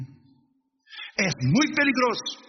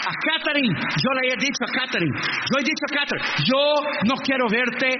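raised preaching voice; 5 semitones higher than usual. Acted. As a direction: preach it up, pressing the point. Predica alzando la voz. (voz de predicador alzada)

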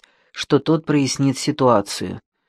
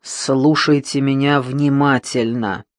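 calm but deadly; slower than usual. Acted. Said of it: "спокойным, но убийственным тоном".

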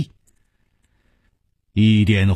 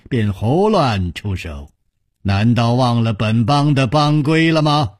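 controlled, mildly severe scolding; stern rebuke. Acted. Nangong rebukes his young disciples, mildly stern. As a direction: scold with restrained authority. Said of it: "厉声说".

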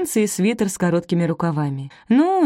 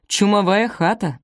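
put-on American accent. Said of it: "старательно выговаривает с каким-то американским произношением".

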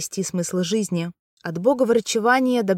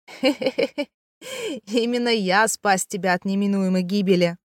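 put-on cackling old man. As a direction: cackle and brag like a rascal. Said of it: "закатился громким смехом".

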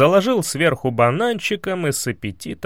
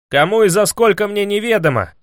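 higher, proud ringing reply; proud answer; 7 semitones higher, 3 dB louder than usual. A narrator's reading. Ivan answering the prince, proudly. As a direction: answer with haughty pride. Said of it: "гордо ответил Иван".

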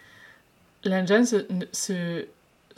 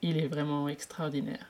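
sincere; 3 semitones lower, 4 dB quieter than usual. Acted. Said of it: "sincèrement".

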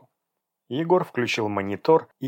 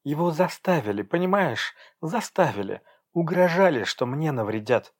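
pleading; 4 semitones higher than usual. Acted. Pleading defence of father.

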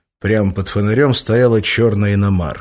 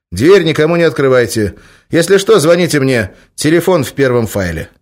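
Oleg's voice; 7 semitones higher, 7 dB louder than usual. A narrator's reading. Oleg instructing.

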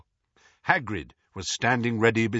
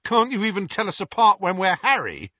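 George; 10 semitones higher, 6 dB louder than usual. A narrator's reading. Twin teasing Moody.

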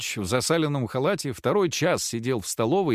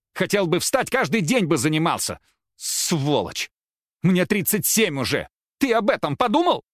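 higher, louder screaming accusations; furious tirade; 5 semitones higher, 3 dB louder than usual. A narrator's reading. Wife hurls reproaches at her crippled husband, higher and louder. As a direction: let the rage climb to a shrill peak.

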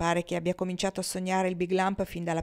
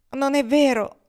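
all in one breath; 6 semitones higher, 7 dB louder than usual. A narrator's reading. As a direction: blurt it out in one rushing breath, a bit louder. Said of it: "rispose Kendra tutto d'un fiato".

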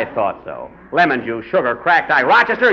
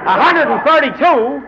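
shocked disbelief; 6 semitones higher than usual. Acted. Coach hears the score.

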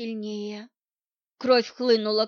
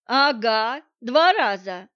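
scoffing; 7 dB louder, slower than usual. Acted. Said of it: "хмыкнула эта несносная женщина".

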